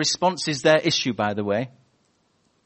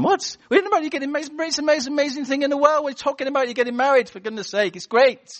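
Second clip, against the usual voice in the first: squealing over a wedding; gushing excitement; 12 semitones higher, faster than usual. Pretend. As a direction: burst with delight at the news. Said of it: "Are they going".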